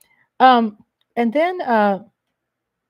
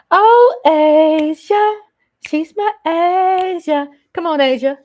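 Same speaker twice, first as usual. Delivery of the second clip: high, loud cry of joy at Asia's name; excited greeting; 8 semitones higher, 8 dB louder than usual. Real, not acted.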